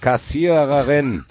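high, very slow mock rallying call; hammed-up coach addressing the cashier; pep speech.

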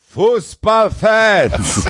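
booming locker-room rallying cry; high, drawn-out coach's call to the team; halftime pep speech. Retold or imitated. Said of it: "So wird wahrscheinlich Thomas Hessler seine Kabinenansprachen machen".

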